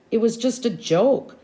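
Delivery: nervous. A narrator's reading. Downed ball carrier placates Brad, nervously. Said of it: "said nervously".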